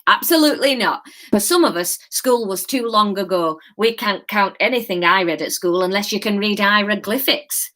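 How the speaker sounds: lightly voiced reassuring Yorkshire old man; a hint of a kindly Yorkshire gent. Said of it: "Yorkshire. That's what you're getting".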